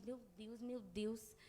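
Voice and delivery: soft worried murmur of "Meu Deus"; anxious lament. Retold or imitated. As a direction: sigh out "Meu Deus" to yourself. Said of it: "Achando eu que eu tô orando".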